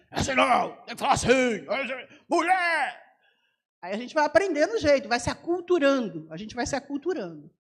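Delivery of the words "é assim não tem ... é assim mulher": put-on a boy yelling how it's done, in a voice unlike hers; kid's correcting shout. Boy teaching the missionary to shout, rough yell. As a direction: bark it out like a street kid. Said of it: "Porque ele fala".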